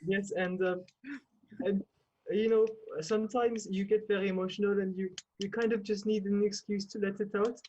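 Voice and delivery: halting put-on French accent; French accent with filler pauses. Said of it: "In a French accent".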